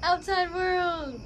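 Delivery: high, slow call at normal volume; drawn-out greeting. Real, not acted. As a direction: stretch out a high hello to outdoors. Greeting the outdoors, first take.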